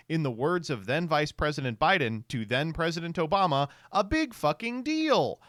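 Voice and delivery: quoting a judge's opinion; reading aloud. Shown as a demonstration. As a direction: read the ruling out deadpan. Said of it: "listen to this".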